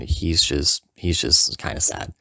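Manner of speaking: slow, sinking, understated gloom; mock sad. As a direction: let it droop slowly as if dejected. Describes friend's sad return.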